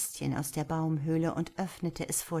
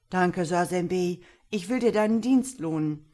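put-on old ibex; 6 dB louder than usual. A narrator's reading. Old ibex thanking the boy who helped him, projected creature voice. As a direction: voice a grateful old animal, projected. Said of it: "Der alte Archabok lief herbei und sprach".

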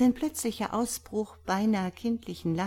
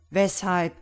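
interested cry; 5 dB louder than usual. A narrator's reading. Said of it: "schrie O'Brien interessiert".

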